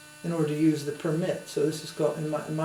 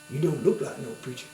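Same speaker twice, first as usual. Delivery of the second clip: put-on southern accent; 4 dB quieter than usual. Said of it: "he had a strong southern accent".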